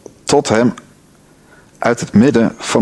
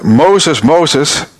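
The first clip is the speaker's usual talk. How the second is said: calling out; 4 semitones higher, 3 dB louder than usual. Acted. God calling from the bush.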